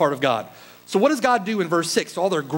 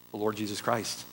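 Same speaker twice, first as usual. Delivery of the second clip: hushed reverence; 9 semitones lower, 11 dB quieter than usual. Real, not acted. Hushed answer after a question.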